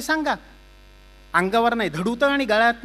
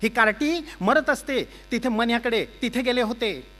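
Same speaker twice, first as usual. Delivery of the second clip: loud, higher nagging rant; scolding wife; 6 semitones higher, 4 dB louder than usual. Acted. Wife scolding Chougule over the spoiled dessert, loud nagging rant. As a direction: tear into the husband.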